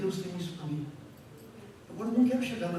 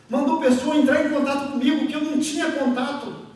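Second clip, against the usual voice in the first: loud, higher-pitched preacher's voice; forceful preaching; 6 semitones higher, 7 dB louder than usual. Real, not acted. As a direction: preach it out to the congregation, loud and urgent.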